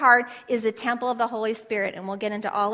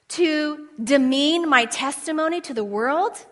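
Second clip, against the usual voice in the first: believer's vow; 4 semitones higher, 4 dB louder than usual. Acted. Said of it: "He intended for our liberties to say".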